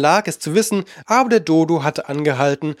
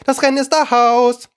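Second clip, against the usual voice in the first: Dodo calling out; 10 semitones higher than usual. A narrator's reading. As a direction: announce the end of the race with a shout. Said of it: "rief der Dodo plötzlich".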